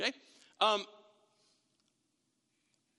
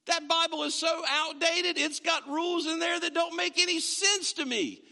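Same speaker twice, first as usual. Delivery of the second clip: mock dismissive; 8 semitones higher than usual. Mocking self-reliant unbeliever.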